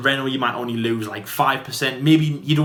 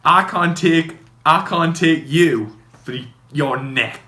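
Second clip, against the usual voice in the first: mock complaint, pushed louder at the start; imitating the neck guy; 3 semitones higher, 4 dB louder than usual. Mimicking the guy who can't take the G-forces, mock complaint. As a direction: put on the complaining racing driver. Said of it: "guy who says that he can't take the G-forces".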